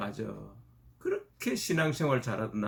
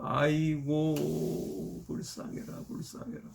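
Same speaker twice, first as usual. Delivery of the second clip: mock wailing lament; 3 semitones higher than usual. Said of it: "막 넋두리를 하고 대방통곡을".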